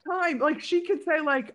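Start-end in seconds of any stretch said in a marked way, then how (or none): 0.0-0.4 talking through laughter; high, laughing delivery. Real, not acted. Laughing describing smiley actor.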